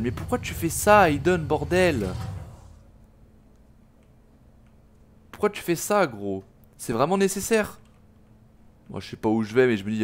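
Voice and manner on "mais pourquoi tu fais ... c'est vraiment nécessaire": high, exasperated why; exasperated high protest. Real, not acted. Yelling at Hayden in game.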